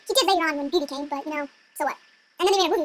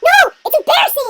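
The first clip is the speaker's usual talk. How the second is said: loud, high mock wail; whiny, hammed-up refusal; embarrassed protest; 9 semitones higher, 8 dB louder than usual. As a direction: cry out in comic mortification.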